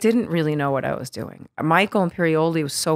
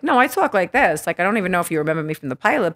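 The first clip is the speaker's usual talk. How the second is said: put-on Queens accent; faster than usual. Actress keeps her Queens accent for producers. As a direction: lay on the Queens accent, then rush the rest. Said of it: "And I had the accent".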